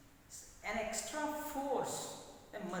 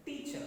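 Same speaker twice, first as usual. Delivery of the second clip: "teacher" with TEA raised high; stress on first syllable; 4 semitones higher, 4 dB quieter than usual. Shown as a demonstration. Teacher repeats the model for students, "teacher" stressed on TEA. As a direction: lift TEA in "teacher", keep -cher light. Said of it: "It is pronounced".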